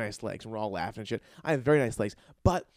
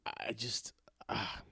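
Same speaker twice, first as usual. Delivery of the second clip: whispered awe; 2 semitones lower, 12 dB quieter, much slower than usual. Real, not acted. Overwhelmed, breath escaping.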